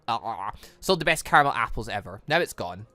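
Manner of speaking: ordinary talk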